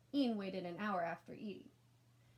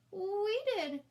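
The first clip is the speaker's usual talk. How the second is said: put-on higher, louder child voice; honest kid; 11 semitones higher, 7 dB louder than usual. A narrator's reading. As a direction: blurt it out plainly. Sister confesses.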